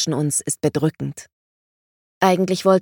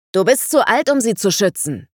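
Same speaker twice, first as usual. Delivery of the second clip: angry taunt; 4 semitones higher, 4 dB louder than usual. Acted. Sword fight, heated quarrel.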